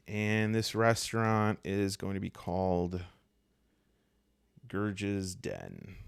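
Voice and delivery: normal talking voice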